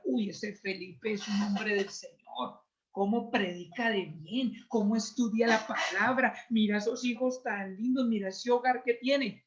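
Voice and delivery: slow, hushed churchgoer praising a preacher; admiring gossip. Retold or imitated. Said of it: "para que sea que diga".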